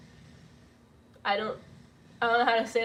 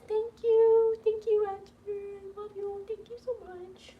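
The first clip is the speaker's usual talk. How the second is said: tearful thanks; 6 semitones higher than usual. Real, not acted. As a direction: squeeze out thanks, choking up. Thanks donor after tender message.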